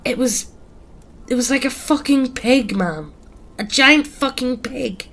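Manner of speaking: high, shaken, struggling to describe it; choking back tears. A narrator's reading. Dan telling friends what he saw, choking back tears. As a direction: force it out through rising tears. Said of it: "Now trying to choke back tears".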